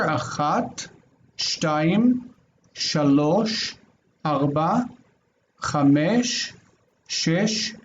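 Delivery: quick count from "Achat" to "eser", each word rising at the end. Shown as a demonstration. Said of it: "let's go a little faster".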